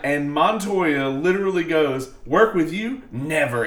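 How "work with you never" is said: barking police commands. Retold or imitated. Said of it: "in that, like, cop voice".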